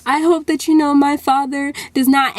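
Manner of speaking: crying friend apologizing for her father; tearful apology. Retold or imitated. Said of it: "She's crying".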